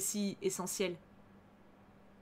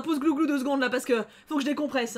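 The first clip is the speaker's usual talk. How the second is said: ordinary talk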